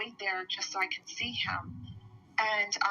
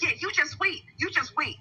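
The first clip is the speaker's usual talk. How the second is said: raised, emphatic mock warning; imitated threat; 6 semitones higher, 5 dB louder than usual. Quoting the driver who scared her, imitated threat. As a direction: act out his threat, higher and a bit louder. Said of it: "he was threatening me".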